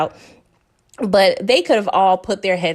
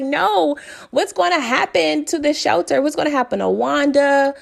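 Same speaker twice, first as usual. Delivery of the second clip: higher-pitched retold dismay; worried outcry; 6 semitones higher than usual. Viewer fretting over the shelter and Wanda, retold worried outcry. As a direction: re-enact your own worry, pitched up.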